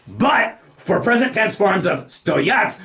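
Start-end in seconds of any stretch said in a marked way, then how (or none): 2.1-2.8 "stoyat" stressed on the second syllable. Shown as a demonstration. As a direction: lean on the last syllable of "stoyat". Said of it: "the stress goes on the second syllable".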